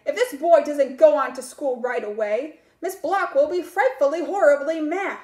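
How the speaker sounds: put-on a cat urging the boy off to school; warning cat. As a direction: warn him about angry Miss Block.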